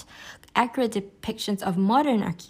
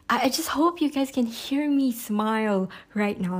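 smiling voice; 3 semitones higher than usual. Real, not acted. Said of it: "hear the smile in my voice".

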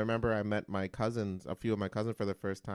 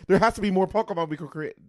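mock creator; 10 semitones higher, 14 dB louder than usual. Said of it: "The creator's like".

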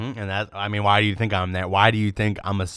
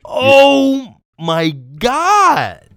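frat bro; 8 semitones higher, 7 dB louder, much slower than usual. Real, not acted. Hyped reaction to joke.

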